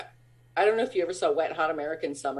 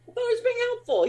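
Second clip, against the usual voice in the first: laughing protest. Retold or imitated. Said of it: "I was like".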